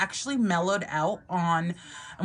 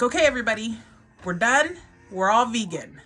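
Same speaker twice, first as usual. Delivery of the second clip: announcing; 4 semitones higher, 4 dB louder, faster than usual. Retold or imitated. Mom announces to family.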